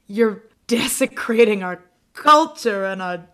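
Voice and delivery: exaggerated indignation, punching the key words; mock offended. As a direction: play outraged, hammed-up. Mock offended protest at accent.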